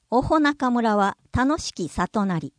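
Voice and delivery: おほ中村 said "oho-naka-mura", with an H; Old Japanese. Shown as a demonstration. Narrator demonstrates the example sentence in Old Japanese. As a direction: archaic wording, おほ as two syllables "o-ho". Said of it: "上代日本語".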